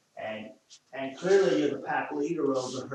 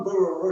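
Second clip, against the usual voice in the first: mock dog bark, a bit louder; imitated barking; 5 semitones higher, 6 dB louder than usual. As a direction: yap it like the dog. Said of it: "She's going".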